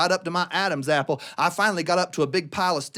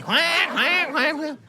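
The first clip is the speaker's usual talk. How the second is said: high mocking quacks; mock duck laughter; laughing duck; 7 semitones higher, much slower than usual.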